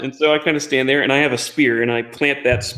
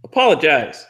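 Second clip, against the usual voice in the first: indignant demand; 8 semitones higher, 4 dB louder than usual. Acted. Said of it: "and say".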